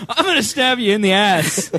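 put-on pirate accent. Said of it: "I lost my accent halfway through that".

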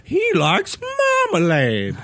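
mock trailer voice. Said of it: "what they said in the damn trailer".

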